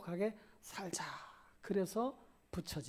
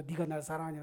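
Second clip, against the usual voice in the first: a blunt, demanding ask; 2 semitones lower, much faster than usual. Shown as a demonstration. Pastor shows the wrong way couples ask, bluntly. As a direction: fire the question at your spouse. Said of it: "그러지 말고".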